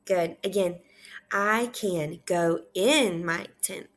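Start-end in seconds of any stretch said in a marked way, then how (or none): 1.3-3.9 slow, spaced words leaning on in; measured teacher modelling; slow read-aloud. Shown as a demonstration. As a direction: read it out word by word for repeating. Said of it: "I want you to repeat after me".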